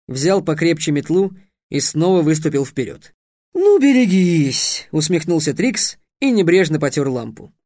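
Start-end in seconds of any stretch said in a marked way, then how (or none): 3.5-4.9 loud, slow, drawn-out warning; slow threat. A narrator's reading. Derek warns the genie, loud and slow. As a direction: brace a broom and warn the enemy. Derek steps forward with broom.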